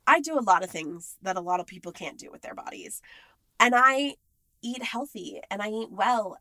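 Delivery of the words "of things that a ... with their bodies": whispered aside. Real, not acted. Drops into whisper.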